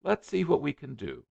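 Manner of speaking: lightly voiced flustered suitor; eager young man.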